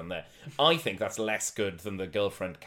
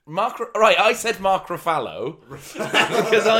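whispered laugh; 9 semitones higher, 11 dB louder than usual. Real, not acted.

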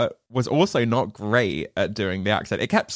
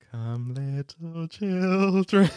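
witch line; 3 semitones higher, much slower than usual. Retold or imitated. Quoting the witches' film line.

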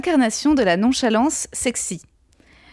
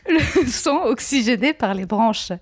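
laughing; slower than usual. Real, not acted. Laughing while reading.

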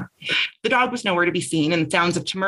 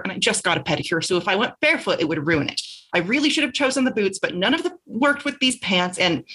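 put-on higher, fast, chatty young woman; Bess's chatty voice; 4 semitones higher than usual. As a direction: rattle off excuses breathlessly. Bess pleads for help, chatty.

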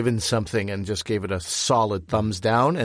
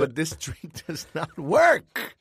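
mock royal scolding; 4 semitones higher than usual.

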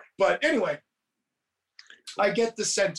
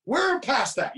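shout; 5 semitones higher, slower than usual. Retold or imitated. Dad shouting at son in retelling.

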